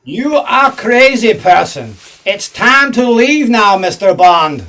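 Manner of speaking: put-on hammy Russian villain accent; thick put-on Russian accent; fake Russian accent. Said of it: "You're not a Russian".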